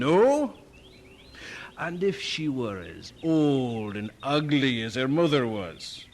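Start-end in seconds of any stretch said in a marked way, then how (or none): 0.0-0.5 higher, louder scoffing question; scornful retort. Acted. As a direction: challenge her disbelievingly.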